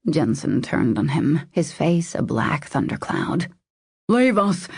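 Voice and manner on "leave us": barked dismissal. A narrator's reading. Jensen dismissing the hovering waiter, a curt bark. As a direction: send the waiter away with one hard word. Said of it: "he barked".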